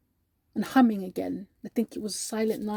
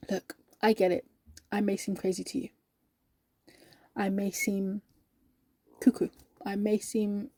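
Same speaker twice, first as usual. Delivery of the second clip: gentle sincerity; 2 semitones lower, 5 dB quieter than usual. Acted. Cheerful colleague admitting she may seem crazy, gentle. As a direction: concede it gently and unhurriedly.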